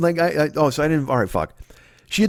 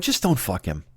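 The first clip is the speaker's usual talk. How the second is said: low, softer retold remark; frustrated jab; 7 semitones lower, 5 dB quieter than usual. Boyfriend to girlfriend about the new neighbor, frustrated and low. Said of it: "so frustrating a moment".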